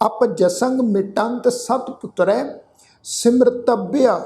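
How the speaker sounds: ਪੁੱਤਰੈ ending on a clear ai vowel, said slowly; careful pronunciation. Shown as a demonstration. Teacher modelling the correct reading of ਪੁੱਤਰੈ, slow and clear. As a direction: sound out ਪੁੱਤਰੈ with the ai ending drawn out. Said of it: "ਇਸ ਸ਼ਬਦ ਦਾ ਉਚਾਰਨ ਹੋਏਗਾ ਪੁੱਤਰੈ".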